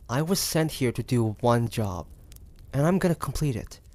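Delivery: ordinary delivery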